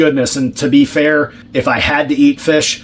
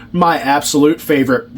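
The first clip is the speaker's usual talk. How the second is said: dry sarcastic praise. Real, not acted. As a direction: say it meaning the opposite. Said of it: "That's sarcasm".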